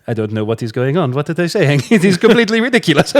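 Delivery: mock French accent. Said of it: "the French people will just be like".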